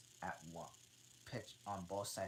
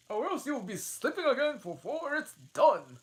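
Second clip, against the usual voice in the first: impatient Hatter; 16 dB louder than usual. Acted. Hatter hurrying the Dormouse, high and loud. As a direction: snap at him to hurry.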